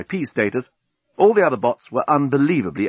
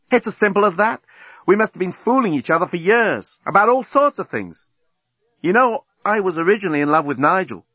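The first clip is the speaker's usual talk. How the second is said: a touch higher, frank confiding woman; a hint of Lucy opening up; lightly voiced Lucy; 7 semitones higher than usual. A narrator's reading. Lucy confessing her marriage to Nettie, lightly voiced and frank.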